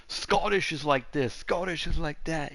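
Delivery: lightly put-on Scottish accent. Shown as a demonstration. Man contrasting Scottish with Irish, Scottish accent. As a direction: show how Scottish sounds. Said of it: "'Cause it's not Scottish".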